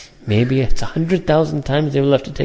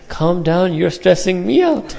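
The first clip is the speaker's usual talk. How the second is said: mock stressed plea; 4 semitones higher than usual. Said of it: "People talk like each other".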